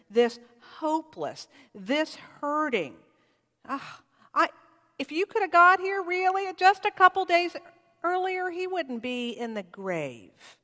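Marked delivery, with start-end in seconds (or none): 3.7-10.6 anguished plea. Acted. Mary's grieving reproach to Jesus.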